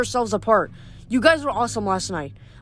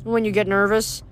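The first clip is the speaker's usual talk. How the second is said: nervous satyr voice; 3 semitones higher than usual. Acted. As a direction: play the anxious goat-boy, mouth full. Grover's voice held in narration.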